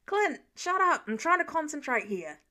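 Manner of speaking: irritated, snapping at him; short-tempered shutdown; annoyed snap. Acted. Sam snapping at Clint.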